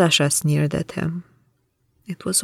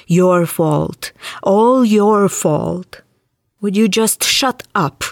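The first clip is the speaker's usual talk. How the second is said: louder, drawn-out mocking bark; snapped; 2 semitones higher, 7 dB louder, slower than usual. Wilde mocking the spirit's blame, snapping furiously. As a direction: throw the spirit's words back and cut it off. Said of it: "Wilde snapped".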